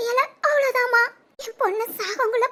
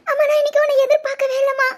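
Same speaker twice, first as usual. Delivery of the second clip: crying; 4 dB louder than usual. Acted. Daughter reunites with father, weeping.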